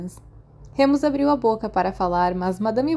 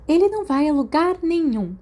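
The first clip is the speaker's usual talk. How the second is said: higher, firm matron voice; a strict nurse laying down the law; stern nurse; 8 semitones higher, 4 dB louder than usual. Acted. Madame Pomfrey forbids Remus from leaving, lightly stern.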